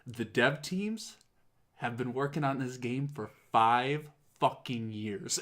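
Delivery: slow, deliberate, held-in mock fury; imitated seething anger. Presenter defending the dev teams, imitated seething restraint. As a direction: measure out every word as if pissed. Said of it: "so pissed".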